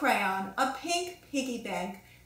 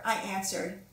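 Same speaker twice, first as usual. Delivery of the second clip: plain reading voice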